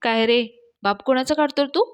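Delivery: mild mock yell, rising high at the end; angry shout. Mahesh angrily yelling at Datta over the insult to his father. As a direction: pitch jumps up in outrage. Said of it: "Mahesh ओरडतो".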